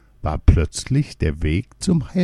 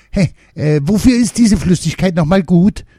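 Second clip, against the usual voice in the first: high, louder croak of the smallest gnome; croaking little gnome; 11 semitones higher, 6 dB louder than usual. A narrator's reading. Smallest gnome asking about the potion, high croak. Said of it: "krächzte der Kleinste".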